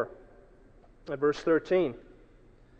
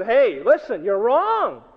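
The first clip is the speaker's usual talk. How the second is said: higher, firm protest; insistent denial; 5 semitones higher, 4 dB louder, slower than usual. Retold or imitated. Peter to a second accuser, insistently denying. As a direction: push back at the accuser.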